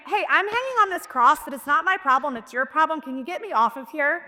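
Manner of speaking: lightly mock, shifting the blame. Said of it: "starts mocking the Lord".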